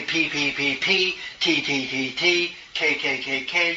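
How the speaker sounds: "P, P, P, P, T, T, T, T, K, K, K, K" in even groups of four; steady articulation exercise on P, T and K; diction drill. Shown as a demonstration. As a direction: count out each letter separately. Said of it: "If you want to say".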